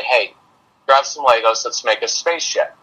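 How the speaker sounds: low-key and gentle, softening at the end; calm, casual invitation. Retold or imitated. Dad inviting his upset son to play, calm and low-key. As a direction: offer it lightly, without any pressure. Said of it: "And I use that tone of voice".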